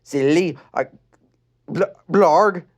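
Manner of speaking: Lenny's line slipping into Adam's grunt; wrong character voice. Acted. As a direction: start the girl and fall into blarg. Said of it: "wrong voice".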